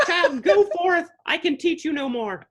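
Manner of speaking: hammed-up wise teacher dismissing a pupil; mock solemn master. Puppeteer to the potato kid, hammed-up solemn blessing. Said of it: "I was just like".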